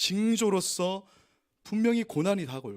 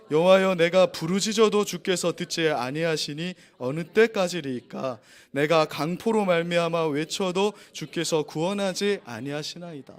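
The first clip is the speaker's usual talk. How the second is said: slow, solemn lament read aloud; scripture reading; 4 dB louder than usual. Acted. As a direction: draw out the plea to God slowly. (느리고 엄숙한 성경 낭독)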